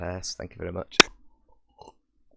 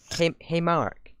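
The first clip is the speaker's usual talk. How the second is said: slow, higher mock cartoon greeting; slow, pitched-up attempt at the old cartoon voice; imitating a squeaky voice; 9 semitones higher, 4 dB louder, slower than usual. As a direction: try to hit the old squeaky voice and miss. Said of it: "I can't even do it".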